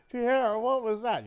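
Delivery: high, loud, slow hammed-up shriek of a burned woman; mock outraged yell. Joke teller plays the burned woman shrieking at Pierre, mock yell. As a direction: scream it at him in comic outrage.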